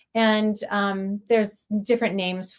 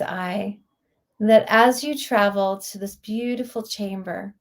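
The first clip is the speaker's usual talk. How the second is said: guided meditation. Real, not acted. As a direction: guide listeners inward, lingering on words with long pauses.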